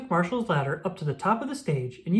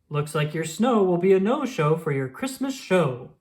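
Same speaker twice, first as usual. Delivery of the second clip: a hint of a gloating mayor; understated gloat; smug villain. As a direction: sneer it lightly at the rivals. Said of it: "Mayor Humdinger said".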